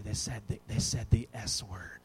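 put-on low, soft, halting child's report; hushed confession. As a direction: confide the taboo word reluctantly. Child confides forbidden word.

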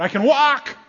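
high, loud amazed shout; joyful cry out. Acted. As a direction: cry out as one just healed. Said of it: "I hear someone cry out".

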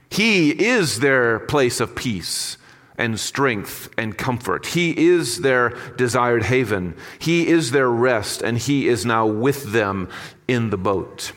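slow, gentle and sincere; tender. Real, not acted. Pastor assuring the congregation that Jesus is their rest, slowly and tenderly. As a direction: linger on each line like a comfort.

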